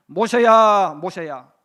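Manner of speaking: God calling Moses loudly from the burning bush. Acted. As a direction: call his name out across the mountain. God calls out from the fire.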